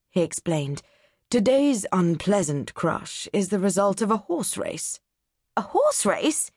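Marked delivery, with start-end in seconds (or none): 1.3-5.0 a hint of a condescending college man; pompous don. Doctor Nichols sneering at the atlas readers, lightly voiced. 5.6-6.5 higher, startled echo; surprised cry. Acted. Mary startled to hear about the horse race. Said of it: "Mary cried".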